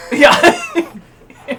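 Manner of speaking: high, loud cooing dog voice; baby talk to pet. Acted. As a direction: coo it like talking to a puppy. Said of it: "That's the voice I use for my dog".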